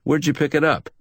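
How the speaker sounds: lightly voiced tough guy; a hint of a hard-boiled questioner; tough detective. Collins voiced by narrator.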